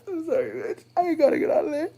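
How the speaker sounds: lingering Irish voice. Acted. Still in the voice.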